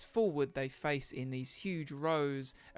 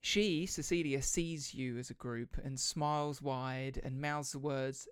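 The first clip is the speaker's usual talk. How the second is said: game master narration. Acted. Game master describes the scene.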